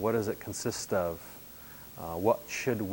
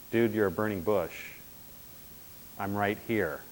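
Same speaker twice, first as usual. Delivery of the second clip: sarcastic. Retold or imitated. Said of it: "Moses being very sarcastic".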